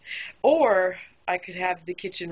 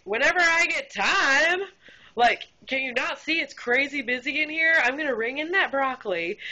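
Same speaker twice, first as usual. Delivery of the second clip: exasperated rant; 6 semitones higher than usual. Retold or imitated. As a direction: let the frustration spill out. Server ranting at customer request.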